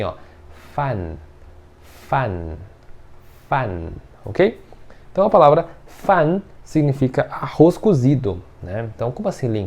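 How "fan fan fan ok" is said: fan ending on a closed n, tongue held; closed n demo. Shown as a demonstration. Teacher showing the closed final n, quietly. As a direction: bite the n shut at the end of fan. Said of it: "Então fica assim".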